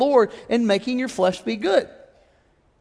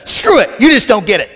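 louder, dismissive snap; stubborn retort; 5 dB louder than usual. Retold or imitated. Husband brushing off wife mid-argument. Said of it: "I'll just be like".

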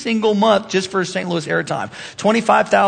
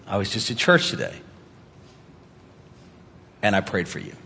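soft texted message; 12 semitones lower, 9 dB quieter than usual. Acted. Models a casual caring text.

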